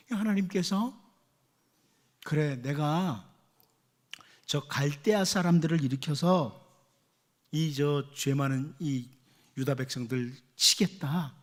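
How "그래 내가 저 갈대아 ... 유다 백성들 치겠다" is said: lower, slow solemn voice of God; God answering. Retold or imitated. Preacher voicing God's stern reply to Habakkuk, low and slow. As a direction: answer gravely and slowly from above. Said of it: "이렇게 말씀하시죠".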